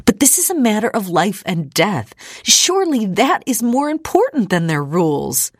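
high, climbing, desperate protest; rising hysteria. A narrator's reading. Ida argues life over rules to her father, hysteria rising. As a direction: let the pitch climb as the protest builds. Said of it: "hysteria rising in her voice".

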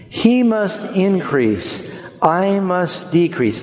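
very slow, emphatic "He must increase. I must decrease."; slow unison recital. Shown as a demonstration. Pastor reciting the verse with the congregation, very slowly. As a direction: lead them through it word by word. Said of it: "Say it with me".

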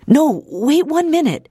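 high, hurried call to wait; urgent plea. Acted. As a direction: stop him before he leaves. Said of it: "Ida said".

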